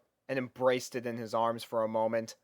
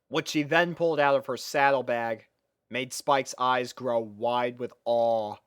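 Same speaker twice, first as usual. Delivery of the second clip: ordinary delivery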